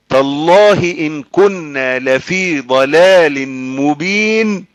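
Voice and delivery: sustained, drawn-out scriptural delivery; slow Quran recitation. Acted. Preacher reciting the quarrel in Hell, slow recitation. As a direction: recite slowly, stretching the last verse most.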